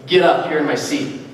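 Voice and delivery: imitating a curt, low-pitched order; curt demand. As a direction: demand the seat abruptly, as a retold quote. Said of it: "He said it just like that".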